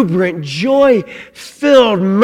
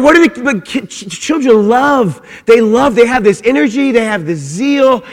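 normal talking voice

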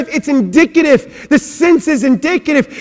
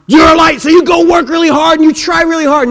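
louder, higher and fast; mock pushy order; 6 semitones higher, 4 dB louder, faster than usual. Preacher mocking a demanding voice, loud and fast. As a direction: push it like a taskmaster. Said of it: "It's not".

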